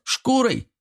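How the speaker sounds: leaps up high in disbelief; surprised. A narrator's reading. The gremlin asks Artyom in disbelief, surprised. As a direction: jump way up on the word, astonished. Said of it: "удивился сват".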